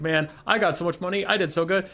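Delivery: mock self-satisfied bragging, pitched high; high, pleased-with-himself retelling; Thanquol. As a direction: play a character gloating over his haul. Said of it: "Thanquol's walking down an alleyway".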